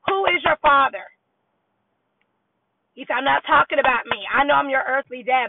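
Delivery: drill-sergeant dad. Retold or imitated. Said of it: "this whole general thing".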